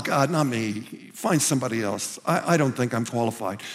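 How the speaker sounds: a hint of a scared believer pleading off; timid excuse. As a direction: shrink back from the call.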